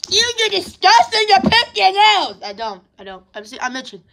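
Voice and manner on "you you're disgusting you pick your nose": mock outraged commenter. Vlogger imitating commenters accusing them of nose picking, mock outrage. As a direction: mimic a scandalised viewer, pitched way up. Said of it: "so don't be on the comments".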